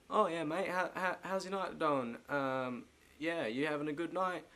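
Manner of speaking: badly faked British small talk; bad British accent. Shown as a demonstration. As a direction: stumble through a chummy British accent. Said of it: "British accent".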